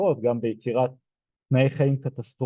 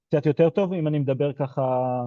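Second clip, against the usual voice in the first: trying a slightly raised, higher voice; speaking up; 3 semitones higher than usual. Real, not acted. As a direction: speak up a little so the listener can hear. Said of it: "לדבר יותר בקול רם". (מרים קצת את הקול)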